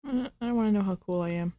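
soft, quick, earnest little admission; sincere. Real, not acted. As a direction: confess it quietly and sincerely. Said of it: "that sounded so sincere".

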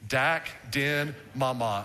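"Dak, din, mama" syllable group by syllable group; "Dak, din, mama" in separate teaching chunks; leading a repeat-after-me. Shown as a demonstration. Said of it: "Would you say that with me?".

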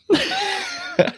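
high-pitched real laugh; laugh to keep from crying. Real, not acted. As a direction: laugh so as not to cry. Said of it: "I laugh to keep myself from crying".

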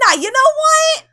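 abrupt furious switch; mock angry yell. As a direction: bark it out like a brash bro. Zach switching to yelling.

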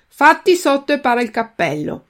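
chiama giù a voce alta e più acuta; un richiamo finto gentile, forte; grido dalla finestra. Acted. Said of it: "gridò a Pinocchio". (il vecchino grida a Pinocchio dalla finestra)

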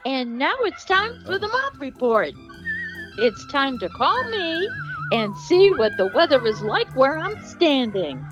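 singsong mock announcer intro; segment intro. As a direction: announce the segment with big swooping pitch. Sung-style segment intro announcement.

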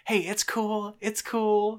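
breezy it's-fine dad brushing it off; a hint of an easygoing father; casual dad.

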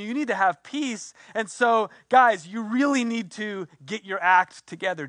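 mock ultimatum, mildly exasperated; acting out an insistent telling-off; exasperated lecture. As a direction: lay down terms to a hapless team. Imagined Jesus demands they prove themselves.

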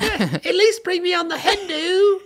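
very high put-on voice with bad Australian accent; Edith. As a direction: squeal it as an indignant uninvited guest. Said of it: "That's a perfect Edith impression".

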